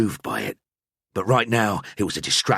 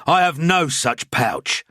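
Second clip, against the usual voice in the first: louder, higher, pressing urgency; urgent priest; 8 semitones higher, 4 dB louder, slower than usual. A narrator's reading. Priest pulling his friend away, urgent and louder.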